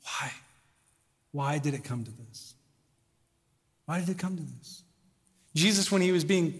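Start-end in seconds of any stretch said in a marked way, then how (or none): 0.0-2.5 weeping. Pretend. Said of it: "He shows up and he weeps". 3.8-4.8 weeping. Pretend. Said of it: "He shows up and he weeps".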